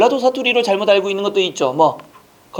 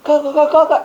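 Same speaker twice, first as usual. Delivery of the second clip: high, loud Gyeongsang 가 repeated with a lilt; Gyeongsang accent; 6 semitones higher, 4 dB louder, slower than usual. Retold or imitated. Teacher to class, mimicking how Gyeongsang people sound in a Gyeongsang accent. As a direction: imitate southern Gyeongsang speakers chanting 가. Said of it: "이거는 남쪽".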